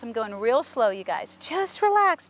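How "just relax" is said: high, drawn-out reassurance, falling at the end; soothing a horse. Real, not acted. Trainer talks to worried horse, high soothing. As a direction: coax a nervous horse to settle, pitched high.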